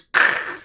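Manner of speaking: short voiceless cracking noise; imitated breaking noise. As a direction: mimic a bed frame giving way. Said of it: "it, it goes".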